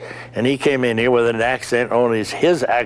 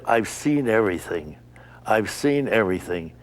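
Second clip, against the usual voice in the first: hushed, amazed under the breath; awed whisper; 3 semitones lower than usual. Retold or imitated. Stunned visitor on the fake airport set, whispering in awe. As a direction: breathe it out in disbelief.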